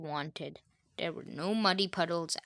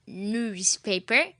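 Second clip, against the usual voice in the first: slowly parroted words, rising; slow parroting; 2 semitones higher, 4 dB louder, slower than usual. Acted. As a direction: parrot repeating the list slowly. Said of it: "Polly repeats".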